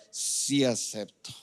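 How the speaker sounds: lightly acted groom, low and slow; groom saying vows. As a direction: answer a mock wedding vow, drawn out. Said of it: "Yo me los imagino casando".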